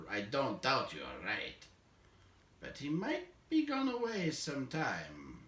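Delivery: a hint of a slow, doubtful old dwarf; thoughtful old dwarf weighing the danger; lightly voiced dwarf Balin. Balin answers Bilbo about the dragon, lightly voiced and doubtful.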